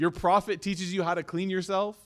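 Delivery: scornful, ridiculing tone. The speaker retells how unbelievers mocked the companions, imitating a mocking tone. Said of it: "in a mocking tone".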